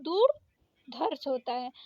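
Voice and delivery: दुर्धर्ष spelled out slowly, every sound clear; careful slow pronunciation. Shown as a demonstration. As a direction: say दुर्धर्ष slowly so each syllable lands. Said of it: "दुर्धवर्ष नहीं".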